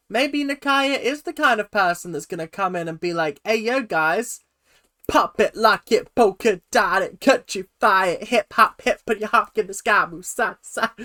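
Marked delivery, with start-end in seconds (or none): 3.4-10.9 punchy, raised American hype voice; bouncy rhythmic chant, higher than usual; stereotyped American hip-hop dancer. Acted. Imagining the Missouri girl greeting the team, hammed-up hype. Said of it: "massive stereotypes about America there".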